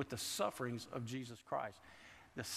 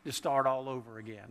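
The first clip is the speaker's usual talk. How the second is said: complaining to God. Retold or imitated. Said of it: "I have been to the place at times where I thought".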